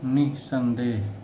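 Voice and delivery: निसंदेह said slowly, stress on the first syllable; slow, deliberate stress demo. Shown as a demonstration. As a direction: draw out निसंदेह, leaning on नि. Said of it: "बलाघात होता है".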